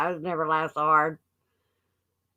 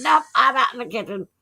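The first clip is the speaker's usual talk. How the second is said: imitated nervous refusal, higher pitched; mildly freaked out; 4 semitones higher, 4 dB louder than usual. Daughter backing away from the lit-up bear, mildly freaked out. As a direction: play up a daughter's hasty retreat, lightly. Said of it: "She got freaked out".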